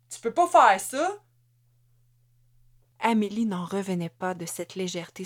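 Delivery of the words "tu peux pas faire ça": high, loud frightened outburst; panicked protest. A narrator's reading. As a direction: plead in shock and fear. Husband protests after being hit. (protestation paniquée, aiguë et forte)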